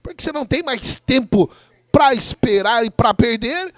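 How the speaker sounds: quick, upbeat sponsor plug; ad read. Acted. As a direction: rattle off the ad brightly. Sponsor ad read mid-broadcast.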